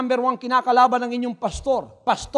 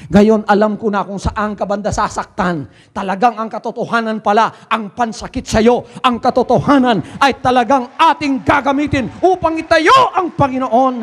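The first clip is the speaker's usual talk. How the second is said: defiant reply; 5 dB louder than usual. Retold or imitated. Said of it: "Sabi ko".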